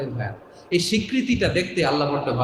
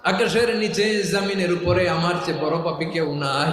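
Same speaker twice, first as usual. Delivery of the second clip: fervent confession; 5 semitones higher than usual. Acted. Leads congregation in confession.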